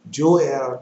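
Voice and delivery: "Joel" said deliberately as Jo-EL; Joel as two syllables. Shown as a demonstration. Preacher repeats the reference, "Joel" as Jo-EL. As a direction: say "Joel" as jo-ELL, second syllable stressed. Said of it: "I'm gonna repeat that".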